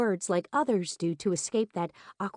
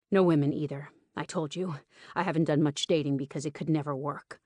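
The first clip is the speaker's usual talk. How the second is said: lightly voiced male lead, restrained; a hint of the host's lower voice; lightly voiced Rowan; 3 semitones lower than usual. Host answers his guest's praise, lightly voiced restrained man.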